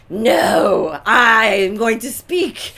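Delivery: loud, slow, firm declaration; assertive alpha. Retold or imitated. Alpha wife insisting, a loud firm no. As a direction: put your foot down. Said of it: "in my genes to be like".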